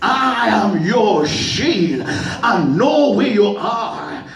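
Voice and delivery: very slow, reassuring; slow comfort, like a father calming a child; reassuring God. Acted. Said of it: "he said, Abraham".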